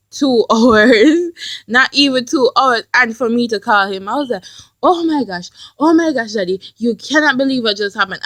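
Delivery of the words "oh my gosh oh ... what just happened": freaking out. Retold or imitated. Calling daddy with bad news, mildly freaking out. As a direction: retell a mild freak-out. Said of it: "I was, like, freaking out".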